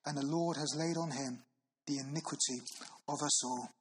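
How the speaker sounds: slow, solemn reading of scripture, weighing each phrase. Acted. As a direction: read it like a sacred text from the pulpit.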